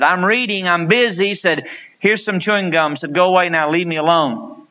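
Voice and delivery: a hint of a busy father shooing his son; brushed-off dad. Busy dad with a magazine shooing away his little boy, mildly irritated.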